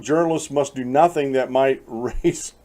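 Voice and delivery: reading aloud until a laugh slips out; slow, measured quote cracked by a real laugh; breaking into laughter. Real, not acted. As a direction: try to read it straight and lose it. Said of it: "can't read this one without laughing".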